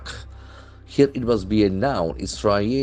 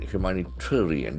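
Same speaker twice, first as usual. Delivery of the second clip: "Humanitarian" with accent inside the word, as taught; third-syllable stress; 4 dB quieter than usual. Shown as a demonstration. Teacher models a long word, accent on third syllable. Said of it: "The accent falls on third syllable".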